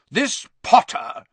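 high, loud aunt voice; loud, scornful. A narrator's reading. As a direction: announce the name loudly with contempt. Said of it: "said Aunt Marge loudly".

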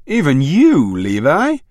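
high, loud wounded disbelief; hurt disbelief. A narrator's reading. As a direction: let the hurt break through.

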